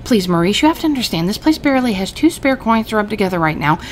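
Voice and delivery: lightly voiced tailor, pleading a little; a hint of a sorry shop owner; apologetic shopkeeper. Fatima turning down Maurice, lightly apologetic.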